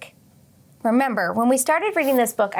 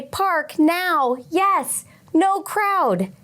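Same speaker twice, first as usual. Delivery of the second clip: tablet voice; 6 semitones higher, much slower than usual. Retold or imitated. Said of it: "she used the tablet to say".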